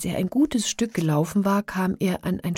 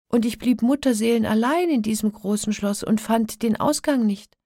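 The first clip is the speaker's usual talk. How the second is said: higher-pitched, pleading princess; anxious princess; 5 semitones higher, 5 dB louder than usual. A narrator's reading. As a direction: plead as a frightened captive, voice raised in pitch. Princess tells her feigned dream. (ängstlich flehende Prinzessin)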